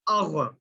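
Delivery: اغ with a thick throat ghayn; ghayn drill. Shown as a demonstration. Teacher leading students in practice. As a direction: rasp the غ in اغ. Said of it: "آپ میرے ساتھ پڑھیں".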